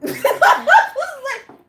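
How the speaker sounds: high, loud slow laugh. Real, not acted. Reacting to the pregnancy news, laughing loudly. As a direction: laugh in disbelief.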